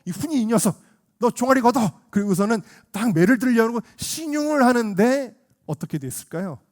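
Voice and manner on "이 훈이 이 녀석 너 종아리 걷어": loud, high scolding; acted stern order to a child; angry father. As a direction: imitate a dad losing his temper. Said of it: "아빠가 너무 화가 나가지고".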